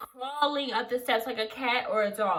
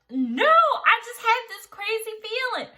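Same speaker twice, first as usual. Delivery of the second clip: pitched up high, a bit louder; high, anxious; 10 semitones higher, 4 dB louder than usual. Retold or imitated. Telling the phone lady about a strange feeling, high and anxious. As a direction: sound rattled and unsure.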